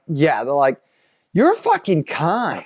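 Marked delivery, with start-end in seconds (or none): 1.3-2.7 put-on Australian accent. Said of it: "Like that".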